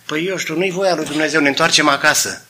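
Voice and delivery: quiet reply. Retold or imitated. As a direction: drop the voice, give in. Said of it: "reply in the dialogue".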